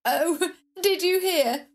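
giggling through it; laughing. Acted. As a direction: laugh as you ask. Laughing gossip.

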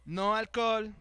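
deliberate, staccato mock officer; officer's repeated warning. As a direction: spell out each ban with a gap between. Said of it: "nos vuelve a decir". (imitando al oficial, advertencia pausada)

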